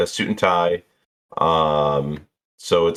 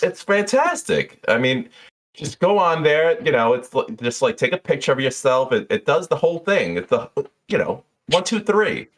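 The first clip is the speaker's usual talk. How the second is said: chatty bartender; 7 semitones higher than usual. Acted. Jeannie recommending the clothes shop to Dukes, high and gushing. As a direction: sell him on the shop.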